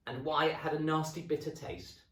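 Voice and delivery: high, sly taunting hag voice; high teasing witchy voice; gloating wife. Acted. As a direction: tease him before the reveal.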